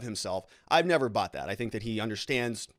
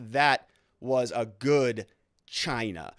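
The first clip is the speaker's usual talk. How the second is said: smug self-satisfied aside; much slower than usual. Retold or imitated. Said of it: "where he goes".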